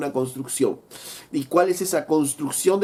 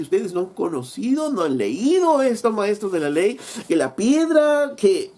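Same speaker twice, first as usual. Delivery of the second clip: higher, mock-scolding preacher voice, slowing on the stone; sarcastic; 4 semitones higher than usual. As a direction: needle them with a rising, pointed taunt. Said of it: "sarcásticamente Jesús les dice".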